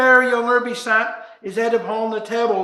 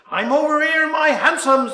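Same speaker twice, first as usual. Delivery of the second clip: put-on drunk call; 6 semitones higher, 4 dB louder than usual. Drunk stranger calling back.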